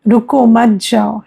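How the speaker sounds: रुको on its own, then मत जाओ; pause after रुको. Shown as a demonstration. Teacher explaining a comma to students, pause after रुको. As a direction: put the comma break straight after रुको. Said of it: "रुको के बाद comma है".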